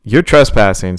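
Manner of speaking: loud retort. Acted. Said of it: "Sadie replied".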